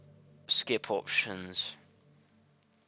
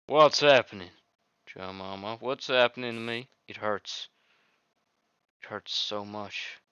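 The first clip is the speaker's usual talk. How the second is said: lightly voiced heroine in pain. A hint of the game girl begging the player for help.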